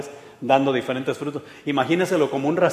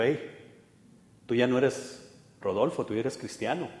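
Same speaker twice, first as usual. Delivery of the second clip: quiet, lower calming voice; soft voice of the Spirit; 3 semitones lower, 8 dB quieter than usual. Retold or imitated. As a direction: speak low and gently, reminding. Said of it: "El Espíritu me dijo". (voz baja y serena del Espíritu)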